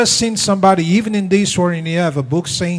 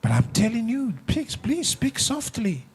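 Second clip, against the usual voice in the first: soft plea; 5 semitones higher, 7 dB quieter than usual. Pretend. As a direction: beg her quietly to calm down. Husband begs softly.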